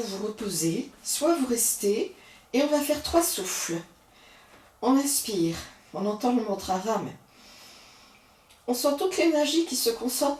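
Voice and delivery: calm, unhurried yoga guidance; soothing yoga teacher talking students through the breaths; guided yoga breathing. Acted. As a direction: lead the class gently through each breath.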